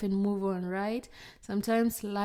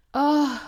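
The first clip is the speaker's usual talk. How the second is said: loud, higher exasperated "oh"; exasperated groan; 6 semitones higher, 8 dB louder than usual. Real, not acted. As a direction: groan out loud, fed up with yourself. Groans over own laziness, moves on.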